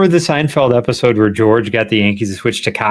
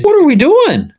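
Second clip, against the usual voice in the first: laughing disbelief; 14 semitones higher than usual. Real, not acted. Laughing disbelief at podcast topic.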